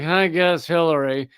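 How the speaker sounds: mock reluctant, low-energy shrug; half-hearted. Voicing lukewarm Hillary voters at a caucus, half-hearted. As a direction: imitate a voter settling without enthusiasm. Mimics unenthusiastic Hillary voters, against Bernie fans.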